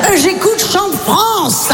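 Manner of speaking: put-on high, slow quavering old-lady voice. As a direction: sing it out like a frail grandma. Chevrotante, voix de vieille. (voix de petite vieille chevrotante, aiguë et lente)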